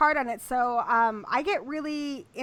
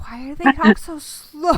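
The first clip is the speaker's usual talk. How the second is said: laughing disbelief; 3 semitones higher, 8 dB louder than usual. Retold or imitated. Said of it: "I'm just like".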